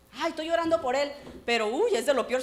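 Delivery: hammed-up churchy gossip; mock pious sigh. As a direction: put on a pious act. Mocking fake piety.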